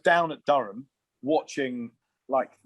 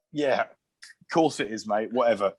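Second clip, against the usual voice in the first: slow, drawn-out sceptical brush-off; dismissive disbelief; slower than usual. Retold or imitated. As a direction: humour the caller without believing a word. Brushing off a suspected prank call.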